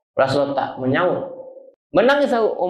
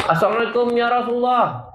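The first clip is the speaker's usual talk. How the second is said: raised, higher call of Abu Bakar; calling at the door; 5 semitones higher than usual. Acted. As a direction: call out to the Prophet at his door. (memanggil di pintu dengan suara tinggi)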